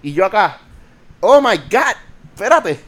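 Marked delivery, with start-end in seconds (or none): 1.2-2.8 high, loud disbelieving cry of "Oh my God"; mock shocked gasp. Call center agent recalling his shock at the caller, high and loud. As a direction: play up the shock at the screaming lady. Retelling own reaction to yelling caller.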